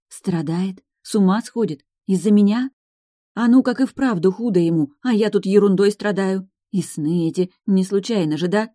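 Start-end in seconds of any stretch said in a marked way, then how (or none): none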